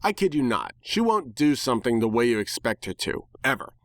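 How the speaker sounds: ordinary delivery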